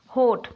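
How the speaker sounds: हॉट said whole in one syllable, no break; हॉट as one unbroken beat; one single beat. Shown as a demonstration. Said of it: "change नहीं करना पड़ रहा".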